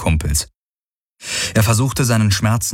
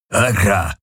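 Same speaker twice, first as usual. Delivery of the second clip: belched. A narrator's reading. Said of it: "rülpste der Vierarm".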